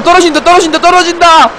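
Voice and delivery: rising panicked shouts; fake panic yell. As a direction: yell as if the ride drops. Fake fall scare on coaster.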